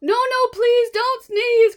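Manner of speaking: high, loud slow pleading; pleading cry. Acted. Monkeys begging the elephant, a loud slow wail. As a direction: wail it out slowly. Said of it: "cried the monkeys".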